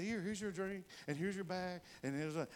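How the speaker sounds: put-on nice young man. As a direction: gently imitate a helpful kid. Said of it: "this young man was so nice".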